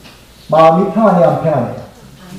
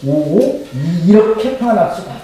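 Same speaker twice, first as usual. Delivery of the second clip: demonstrated awe. Shown as a demonstration. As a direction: show them how to marvel at such peace. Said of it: "감탄하세요".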